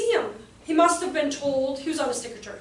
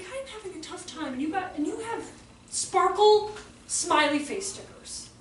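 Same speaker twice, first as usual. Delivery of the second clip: put-on incredulous child; 4 semitones higher than usual. Boy's incredulous thought, retold.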